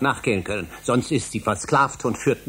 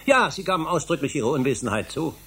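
rising, pressing challenge, pitch higher; heated accusation; 5 semitones higher than usual. Acted. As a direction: corner him with indignant questions. Heated argument between scientists.

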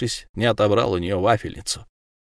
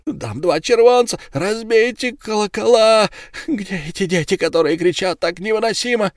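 high, loud, desperate cries of the trapped man; wounded werewolf screaming at the crowd; screaming in pain; 11 semitones higher, 4 dB louder than usual. Acted. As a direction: howl for mercy through unbearable pain. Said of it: "от нестерпимой боли крича".

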